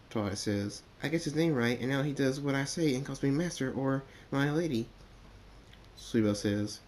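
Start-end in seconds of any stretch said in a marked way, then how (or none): 1.0-4.9 a bit higher, chatty little filly; lightly voiced filly. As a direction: explain it brightly as a young filly. Sweet Belle figure explains.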